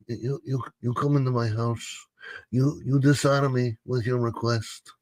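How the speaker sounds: menacing Godfather Italian accent, offended don; a mob boss Italian accent, wounded pride; gravelly Mafia don Italian accent. Shown as a demonstration. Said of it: "the Godfather Italian accent".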